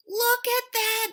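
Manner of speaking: high, loud and slow in wonder; amazed Hedgehog. Acted. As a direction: point it out, amazed. Hedgehog voiced in the story.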